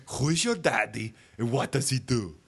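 flat movie-robot delivery, changed timbre; a lightly voiced Schwarzenegger line; Terminator voice. The computer quizzing Herb, lightly Arnold-like. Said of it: "line from Terminator".

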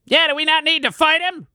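high squeaky rat voice; twitchy squeaking rat voice. Acted. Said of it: "says the rat".

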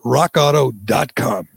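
brisk, upbeat ad read with every word clear; sponsor ad read. Acted. Host reading a sponsor spot to podcast listeners, upbeat ad read. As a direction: sell the parts store to the listeners.

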